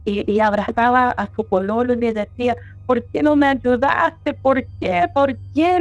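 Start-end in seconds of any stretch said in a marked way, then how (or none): 2.9-5.8 higher-pitched, mildly pleading questions; retold tearful reproach. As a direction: imitate an upset friend reproaching her boyfriend. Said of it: "veo a mi amiga llorando, pero desconsoladamente". (imitando un reproche desconsolado)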